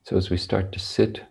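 unhurried meditation guidance with long, spacious pauses; guided meditation. Real, not acted. Teacher settling sitters on their cushions, spaced-out meditation guidance. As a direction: guide sitters gently into posture, phrase by phrase.

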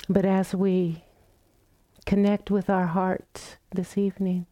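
calm, unhurried meditation guidance with long pauses; guided meditation. Real, not acted. Teacher guiding the group into loving kindness practice, calm meditation voice. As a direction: gently invite them to settle, phrase by phrase.

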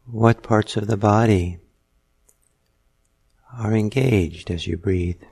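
measured meditation guidance with long pauses; guided meditation. Real, not acted. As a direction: unhurriedly guide listeners into noticing their breath. Leads a guided breathing meditation.

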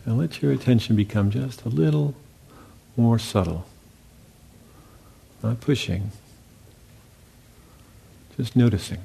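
calm, unhurried guiding voice with long pauses; guided meditation. Real, not acted. Teacher guiding meditators into listening to sounds and silence, calm meditation voice. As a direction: lead them gently, leaving long silences between phrases.

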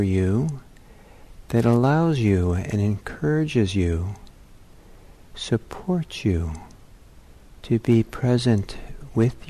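measured meditation guidance with long pauses; guided meditation. Real, not acted. Teacher settling meditators into their bodies, guided meditation. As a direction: lead them into stillness, leaving space between phrases.

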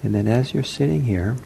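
unhurried meditation guidance with long pauses; guided meditation. Acted. Teacher to seated meditators as they settle, guided meditation. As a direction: gently guide sitters, leaving long silences.

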